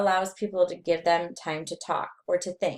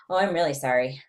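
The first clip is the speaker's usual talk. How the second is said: apology in a lower, narrow pitch; varied range; 3 semitones lower, faster than usual. Shown as a demonstration. Lecturer repeats apology to show range, low-key pitch. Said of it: "then there's range".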